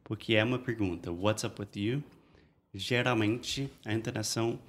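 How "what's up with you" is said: "What's up with you?" lifting slightly on "you"; "you" said with a gentle questioning rise; rising question intonation. Shown as a demonstration. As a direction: let the pitch go up a little at the end on "you". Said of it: "vai um pouco para cima no final da frase".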